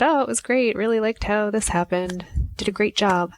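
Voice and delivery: bright put-on politeness, starting high; a hint of forced cheer to the worker; fake cheerful. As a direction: smile through it and pretend it was fine. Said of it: "she put the smile on".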